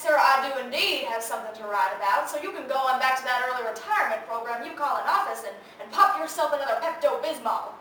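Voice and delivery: loud, lively comeback; sassy retort. Acted. Reporter to the office on the phone, sassy retort. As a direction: send the caller off with emphatic sass. Snapping back at caller on phone.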